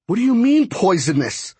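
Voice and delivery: rising alarm. Acted. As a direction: let the voice climb in alarm. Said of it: "My voice rose".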